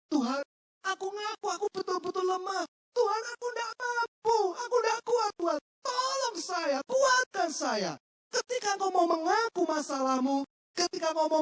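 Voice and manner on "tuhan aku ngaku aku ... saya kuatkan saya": high, pleading prayer, slowing at the end; humble plea. Acted. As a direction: confess weakness to God, pleading. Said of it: "bicara dengan Tuhan secara tulus". (doa memohon dengan rendah hati, nada tinggi)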